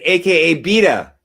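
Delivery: squealy teasing imitation; mock loud quote. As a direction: belt it out as a teasing impression. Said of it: "then he said".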